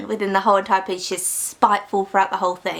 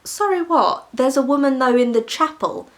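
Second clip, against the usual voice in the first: incredulous; 4 semitones higher than usual. Retold or imitated. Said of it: "And our woman's like".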